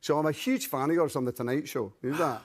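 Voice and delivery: Glaswegian accent demonstration; conversational Glasgow Scots accent. Shown as a demonstration. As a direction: chat like a Scottish fan from Glasgow. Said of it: "to Glasgow".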